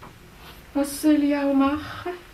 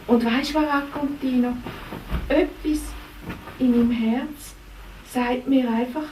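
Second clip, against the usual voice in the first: kindly helper Racontino; 3 semitones lower than usual. Acted. Racontino comforting the princess, lower and gentle. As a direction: talk gently to the lost princess.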